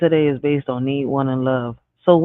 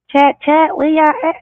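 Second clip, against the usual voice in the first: calling out to chat; 11 semitones higher than usual. Real, not acted.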